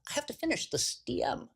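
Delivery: hushed, high whisper; high-pitched panicked whisper; urgent whisper. Retold or imitated. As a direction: whisper it fast, guards coming. Hiding phone from guards.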